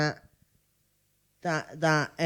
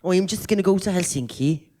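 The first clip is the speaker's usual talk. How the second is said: put-on Welsh accent; faster than usual. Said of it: "if you do a fucking Welsh accent".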